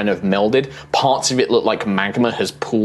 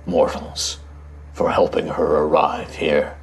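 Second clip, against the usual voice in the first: slow, grave ancient guardian; deep rumbling voice; 3 semitones lower than usual. Acted. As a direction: speak like a giant of stone, unhurried. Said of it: "this deep rumbling voice".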